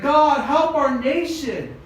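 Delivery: high, urgent acted prayer; desperate pleading, performed without sobs; crying plea. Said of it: "And he's crying".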